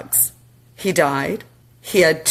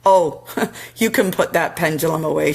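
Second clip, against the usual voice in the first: laughing spirit. Retold or imitated. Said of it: "he laughed".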